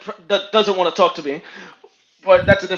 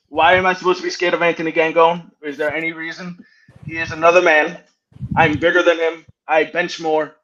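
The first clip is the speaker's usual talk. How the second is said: low, measured reasoning; controlled, matter-of-fact confidence; calm, composed challenge; 4 semitones lower than usual. Real, not acted. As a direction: lay out the case coolly in a lowered voice. Composed restatement after putting glasses on.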